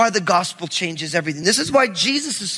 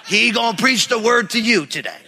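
stretched-out southern drawl. Retold or imitated. Buddy vouching for the scruffy visiting preacher, southern drawl. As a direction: imitate a southern pastor, drawling it out. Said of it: "He's got a nice southern drawl".

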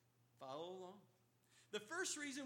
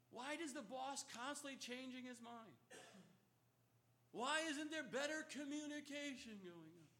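exasperated complaint; 4 semitones higher than usual. Retold or imitated. Preacher voicing a frustrated worker to the congregation, exasperated. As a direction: whine about the boss changing his mind.

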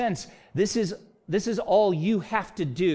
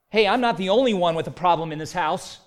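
defensive retort, louder; 5 dB louder than usual. Retold or imitated. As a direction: snap back defensively. Deflecting quote in sermon.

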